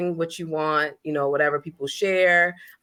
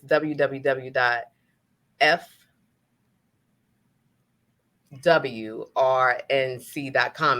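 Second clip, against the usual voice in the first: slow, spelled out; 3 semitones lower, much slower than usual. Real, not acted. Reading the website to listeners, slow and deliberate. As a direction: spell the web address out slowly. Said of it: "the only reason I said that slow".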